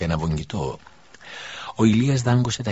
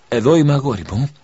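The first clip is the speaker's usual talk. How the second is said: longing; 5 semitones higher, 8 dB louder than usual. A narrator's reading. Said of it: "με λαχτάρα".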